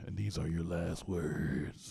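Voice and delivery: slow, low, evil announcer; grim reaper voice. Pretend. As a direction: drag it out like death calling. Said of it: "I sound like a Grim Reaper".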